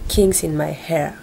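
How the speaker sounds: song title in a hammed-up English accent; lightly put-on English accent; mock English accent. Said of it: "j'ai un pur accent".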